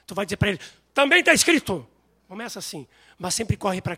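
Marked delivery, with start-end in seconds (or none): 0.9-1.9 firm retort. Retold or imitated. Believer answering the devil.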